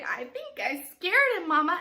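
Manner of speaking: high, loud, eager call; child character's line. Shown as a demonstration. Chip hops forward to tell Mama, high and loud. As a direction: pipe up loudly to Mama. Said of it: "hop forward a little bit and say".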